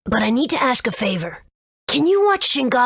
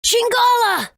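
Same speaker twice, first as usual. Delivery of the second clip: anguished shout; 12 semitones higher than usual. Acted. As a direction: call out to him in despair. Calling to the dragon as it attacks.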